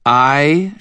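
high, loud, iron-hard queen. A narrator's reading. Mab to the wizard, hard and cold. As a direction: lay down the law as a queen. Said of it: "she said in a hard voice".

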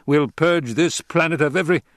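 an angry emperor losing patience; cold rasping evil emperor. Acted. The Emperor orders.

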